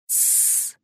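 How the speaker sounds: quiet unvoiced shush; hushing tsss. A narrator's reading. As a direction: hush everyone at once. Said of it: "Надежда поднесла палец к губам".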